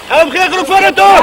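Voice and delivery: loud drill command; shouted order. Real, not acted. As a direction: call it out to the section, loud. Shouting orders during field drill.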